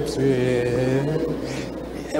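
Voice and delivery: very soft, low, drawn-out answer; trailing, subdued little reply; meek admission. Retold or imitated. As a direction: act a small boy sheepishly owning up. Scared boy meekly answers.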